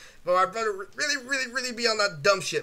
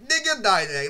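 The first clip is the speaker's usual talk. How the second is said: brother's mangled version; 4 dB louder than usual. Retold or imitated. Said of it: "my brother's like".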